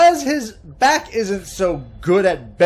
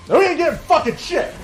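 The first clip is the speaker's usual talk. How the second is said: mock angry dad; 10 semitones higher, faster than usual. Dad refuses candy.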